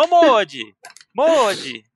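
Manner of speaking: play-acted, light, easy, half-voiced delivery. Retelling how they called out to someone: retelling own shout. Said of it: "E aí eu gritando".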